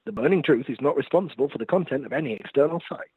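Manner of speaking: formal announcer disclaimer read. Acted. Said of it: "I need to put on my announcer voice".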